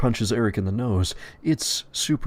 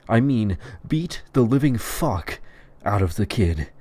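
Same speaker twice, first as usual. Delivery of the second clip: "beat the living fuck" slowed and punched; emphatic repeat; 2 semitones higher than usual. A narrator's reading. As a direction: hammer each word of "beat the living fuck".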